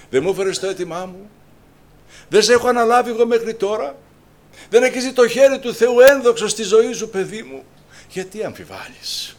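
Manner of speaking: high, loud booming reassurance; loud divine voice; voice of God. Acted. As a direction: speak as God rebuking gently. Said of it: "έρχεται η φωνή του Θεού".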